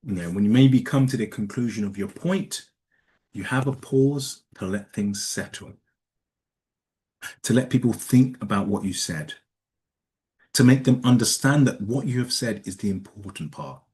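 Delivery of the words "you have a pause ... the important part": long pauses between phrases to let words settle; deliberate pauses. Shown as a demonstration. Speaker demos pausing to let points sink in, long pauses. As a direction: leave silence after "settle" and "said". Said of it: "You see what I've done there? I'm using that pause".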